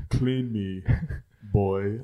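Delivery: put-on commanding baby with an English accent; proper English accent. Baby demanding a change, proper English accent. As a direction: order father about in a proper English accent. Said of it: "same voice and accent".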